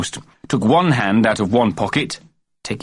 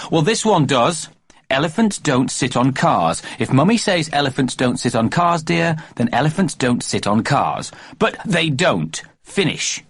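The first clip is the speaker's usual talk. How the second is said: put-on child voice; 6 semitones higher than usual. A narrator's reading. Child mimics mother.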